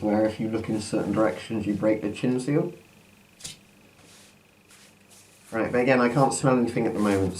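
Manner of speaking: muffled behind a gas mask; talking through a mask. Real, not acted. Mask put on at line 40.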